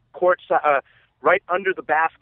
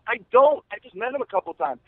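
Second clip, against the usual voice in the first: higher, flustered half-laughing answer; baffled reply; 6 semitones higher than usual. Retold or imitated. Fan answering stunned friends, baffled and giddy. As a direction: replay your own bewildered shrug in words.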